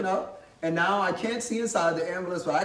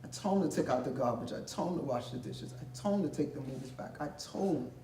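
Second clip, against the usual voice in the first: soft, weary-sounding list of grievances; mother's distant complaint; 6 dB quieter than usual. Retold or imitated. Mother heard from near death, listing his chores, hushed complaining. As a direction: let each complaint fall away quietly. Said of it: "my mother say".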